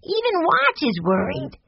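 put-on very high little boy voice; piping, excited kid character; Benny crying out. A narrator's reading. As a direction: exclaim like a concerned small child. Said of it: "cried Benny".

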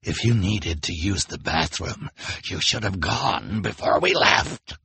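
snarling villain's scolding; Count Olaf, sharp. A narrator's reading. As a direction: scold sharply, drawing out the last words. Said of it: "Olaf said sharply".

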